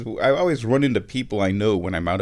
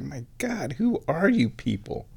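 lightly imitated incredulous kid; higher, softer mock astonishment; retold amazement; 5 semitones higher, 3 dB quieter than usual. Retold amazed kid behind the counter.

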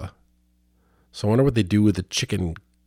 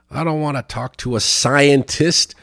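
quoting a rap group's lyric; 5 semitones higher than usual. Retold or imitated. Vlogger quoting a song lyric about scientists, mock tough rap. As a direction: toss off the lyric like a half-hearted rapper. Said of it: "a rap group's song".

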